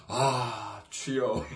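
low, murmured "아, 주여" like a believer groaning a prayer; mock pious groan; pious sigh to the Lord. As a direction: sigh "주여" softly, as if praying through the pain. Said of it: "이러면서".

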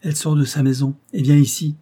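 put-on a young man suddenly sure, calling out; assured voice. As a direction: announce it with certainty. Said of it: "d'une voix assurée prononça ces paroles".

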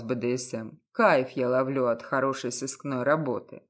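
low, cynical, self-assured detective. A narrator's reading. Detective voiced lower.

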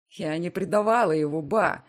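loud, desperate protest; desperate cry. A narrator's reading. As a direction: cry out in despair. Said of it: "выкрикиваю с отчаянием".

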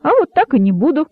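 peevish, hurried retort; irritated outburst. Acted. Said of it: "раздражённо воскликнул удав".

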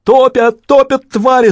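very high, loud, terrified howling; panicked wail. A narrator's reading. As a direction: shriek for help while being dragged under. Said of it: "завопил он". (отчаянный вопль утопающего)

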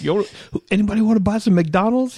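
high, loud hustling crackhead. Retold or imitated. Crackhead selling a bag of McDonald's. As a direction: hawk it in a high squeaky pitch. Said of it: "He's like".

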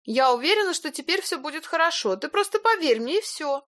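high, sweet coaxing woman. A narrator's reading. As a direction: soothe and persuade him. Илона уговаривает Пашу. (ласково уговаривая)

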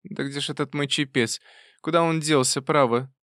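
a lightly voiced bustling old aunt; searching for her cap, fussing; fussy old aunt. A narrator's reading.

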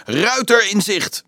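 high, drawn-out lookout's cry; alarm call. Acted. Wachters warn the camp during their meal, alarm call. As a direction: call out a warning, stretching the words. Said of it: "de alarmroep van de wachters".

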